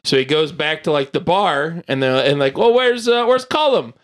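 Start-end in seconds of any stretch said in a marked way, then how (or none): 2.6-3.9 high-pitched acted question, puzzled; puzzled asking. Retelling a friend asked at the bar, puzzled. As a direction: pitch it way up, as if asking round the pub.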